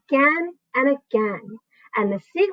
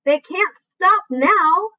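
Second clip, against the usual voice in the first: urgent insistence; 9 semitones higher, 4 dB louder, much slower than usual. A narrator's reading.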